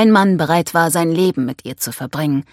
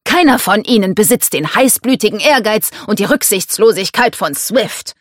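lightly voiced insistent patriarch; emphatic father praising his favourite; domineering father, insistent; 4 semitones higher, 4 dB louder than usual. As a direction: press on, a touch raised.

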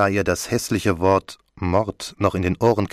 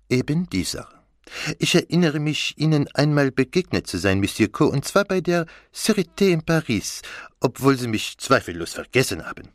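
higher-pitched, courteous detective; Poirot; 7 semitones higher than usual. Acted. Poirot reminds Monsieur Co of Paris, courteous character voice. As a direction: play the polite detective in a high character voice. Poirot recalls an earlier meeting.

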